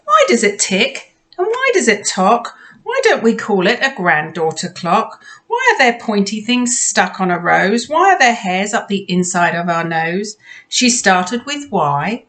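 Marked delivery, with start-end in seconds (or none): 0.0-10.4 eager questioning voice; bright curious asking; curious child. Acted. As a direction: pile on the questions with wonder.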